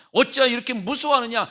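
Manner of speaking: Jesus rebuking the frightened disciples. Shown as a demonstration. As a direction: scold the disciples with "어찌하여". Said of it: "책망하신 말씀 들어보세요".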